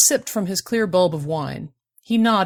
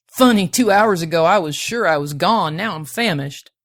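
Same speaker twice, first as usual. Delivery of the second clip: put-on louder, lilting accent, opening emphatically; accented prospector; 6 dB louder than usual. A narrator's reading. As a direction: play the rescued prospector in a singsong accent. Accented prospector relieved after rescue.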